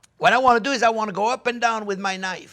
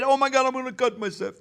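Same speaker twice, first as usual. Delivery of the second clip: imitating a nervous home cook, a touch higher; higher mock fear voice, teasing the viewer; mock panic; 6 semitones higher than usual. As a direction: playfully mimic a scared beginner.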